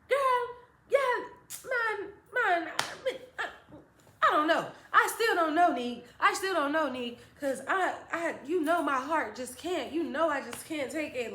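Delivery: high, laughing mock-anguished mom; a mother hamming up her worry; dramatic mom. Mom telling her daughter she can't take it, high and hammed-up.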